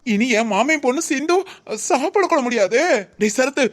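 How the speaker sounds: high, hammed-up alarmed wailing; overacted lament for Sindhu; mock panic. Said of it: "நடிப்பெல்லாம்". (மிகைப்படுத்தப்பட்ட நடிப்பு பதட்டம்)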